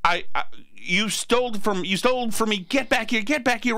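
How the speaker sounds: lightly imitated Chinese-accented waiter; mock-angry demand with a hint of Chinese accent. Waiter chasing two diners who skipped out, angry Chinese accent. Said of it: "he had a Chinese accent".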